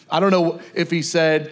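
normal talking voice

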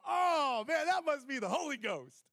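loud, high laughing exclamation; excited shout. Retold or imitated. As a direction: friends crowing at a joke, loud and high. Friends laughing, exclaiming at him.

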